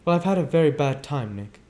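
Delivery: Daisy confiding in her cousin Nick; Daisy speaking. Acted. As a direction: speak suddenly and searchingly.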